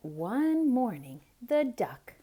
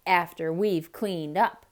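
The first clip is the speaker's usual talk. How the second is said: stormed; 3 semitones lower, 5 dB louder than usual. Acted. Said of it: "stormed the cat".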